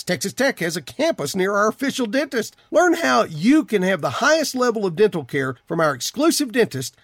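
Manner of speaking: polished radio commercial read. Acted. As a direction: sell it in a steady, lilting announcer flow. Host reads a dental ad.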